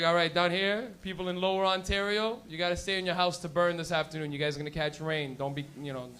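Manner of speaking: lightly put-on low forecaster voice; stoned weatherman. Weatherman warning Ontario smokers about rain, mildly stoned voice. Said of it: "somebody who smoked weed would be the weatherman".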